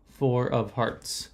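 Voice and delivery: four of hearts drawn out slowly, each word weighted; slow dramatic reveal. Shown as a demonstration. Magician reveals the card to camera, slow and dramatic. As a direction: unveil the card like a magician's big finish.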